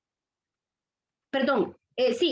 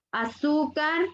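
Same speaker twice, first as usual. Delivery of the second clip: "azúcar" with weight on "zú"; stress on penultimate syllable; slower than usual. Shown as a demonstration. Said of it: "En la penúltima sílaba".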